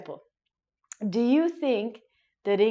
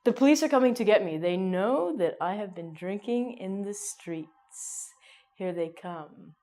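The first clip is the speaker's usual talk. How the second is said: mock panic. Mock panic drinking in street.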